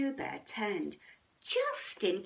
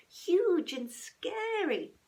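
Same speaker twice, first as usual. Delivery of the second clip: dramatic; 9 semitones higher, 4 dB louder, slower than usual. A narrator's reading. Storm all around.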